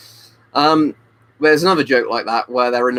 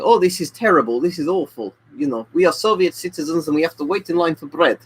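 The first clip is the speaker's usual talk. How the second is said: put-on Russian accent; 4 semitones higher than usual. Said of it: "I'll do the accents".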